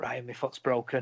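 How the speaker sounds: whispered voice. Retelling words said during a hug: imitating a whisper. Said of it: "whispering in his ear".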